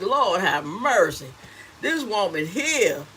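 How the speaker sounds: slow, low mock-weary husband. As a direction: sigh it out like a tired husband. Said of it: "my husband be like".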